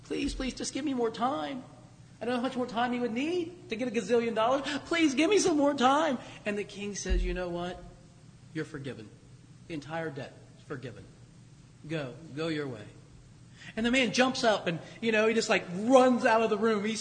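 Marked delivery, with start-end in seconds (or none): 0.0-6.2 higher, pleading please give me more time; begging debtor. Retold or imitated. Debtor begging the king for more time, pleading higher. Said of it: "and he begs". 7.2-12.9 a king quietly releasing the debt; generous king. Retold or imitated. King forgiving the slave's debt, low and soft.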